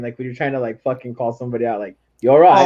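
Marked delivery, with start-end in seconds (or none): 2.2-2.7 condescending. Shown as a demonstration. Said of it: "use that, like, condescending".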